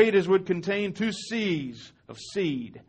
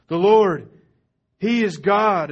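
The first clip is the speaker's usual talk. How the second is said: louder ringing declaration; repeated cry of the crowd, now louder; loud proclamation; 2 semitones higher, 6 dB louder, slower than usual. Acted. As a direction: shout it out in triumph. People repeat the confession.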